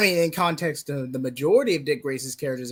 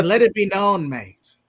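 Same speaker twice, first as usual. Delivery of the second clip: put-on British accent; 4 semitones higher, 6 dB louder than usual. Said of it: "never do a British accent again".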